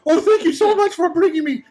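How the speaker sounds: put-on high, gushing thanks from the old bust; grateful bust.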